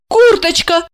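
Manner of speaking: high, lost little question; tipsy woman turning to her lover; bewildered. A narrator's reading. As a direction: ask him in confused disbelief. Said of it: "растерянно".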